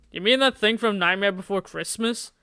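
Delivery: ordinary delivery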